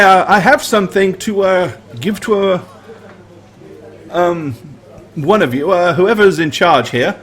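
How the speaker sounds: put-on flustered, hesitant young messenger; nervous messenger. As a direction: stammer it out like a parched messenger. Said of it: "he looks around and he says".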